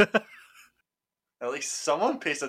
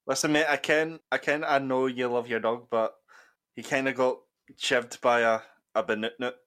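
louder, rough Scottish ned voice; Nedish Scottish accent; 4 dB louder than usual. Acted. Breaking bad news to a dog owner in a loud Scottish ned accent. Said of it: "my Nedish Scottish roots".

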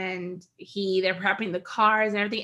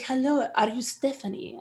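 driver's voice. Retold or imitated. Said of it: "Let's not do the voice, please".

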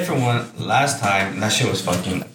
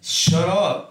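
mock-annoyed, raised pitch; playfully exasperated, pitched up; mock pissed-off; 6 semitones higher than usual. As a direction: retell a fed-up snap without shouting. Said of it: "I'll get pissed".

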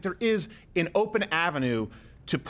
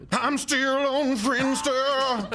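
mock young voice; 8 semitones higher, much slower than usual. Mocking young person.

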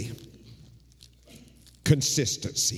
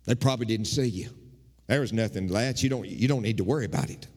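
dismissive brush-off; 2 semitones lower than usual. Retold or imitated. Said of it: "you respond like I would probably respond".

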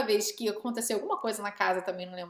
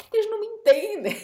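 amiga incompreendida; 10 semitones higher, 4 dB louder than usual. Retold or imitated. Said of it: "ficava olhando pra minha cara assim".

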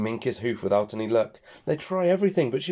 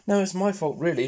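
mock grunt; 8 semitones higher than usual. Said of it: "she grunts".

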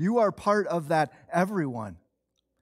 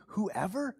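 disbelieving question; 3 semitones higher, 5 dB quieter than usual. Acted. Preacher voicing his own reaction to the verse, disbelieving. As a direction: ask it softly in disbelief. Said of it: "What it says to me".

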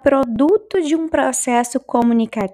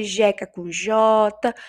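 slow emphatic; much slower than usual. Shown as a demonstration. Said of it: "por que que tem o mesmo som?".

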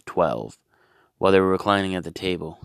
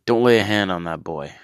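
louder, commanding order; police-like angel; 2 semitones higher, 6 dB louder than usual. Acted. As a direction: bark it like a cop. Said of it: "the angel or the police?".

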